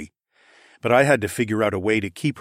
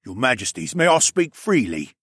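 humble petitioner; 3 semitones higher, 3 dB louder than usual. Acted. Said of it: "he asked with his hand to his chest".

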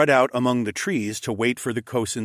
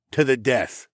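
single-voice vow near usual pitch; Mael's solemn pledge; 3 semitones higher than usual. Acted. Mael's line, echoed by Tunglians.

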